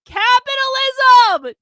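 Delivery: high, loud, slow outcry; crying out. Acted. James finally cries out the word to Carlin. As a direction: wrench it out of your soul. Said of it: "James cried from the depths of his grifter soul".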